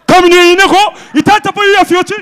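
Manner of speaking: high, loud put-on Lari accent; loud high mock Lari speaker. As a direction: explain the crash in a hammed-up Lari accent. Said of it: "Je fais bien l'accent".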